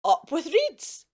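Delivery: mild drawn-out hoot. A narrator's reading. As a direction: chant it out with the herd. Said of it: "And they hooted".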